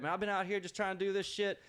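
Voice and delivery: imitated bitching to nobody in particular; mock drive-by complaint; passive-aggressive griping. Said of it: "not even, like, saying anything directly".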